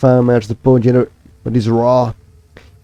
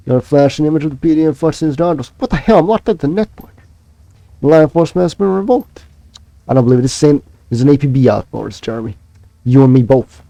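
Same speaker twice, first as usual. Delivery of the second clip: shocked disbelief; 3 semitones higher than usual. Acted. Cop NPC shocked at lockout.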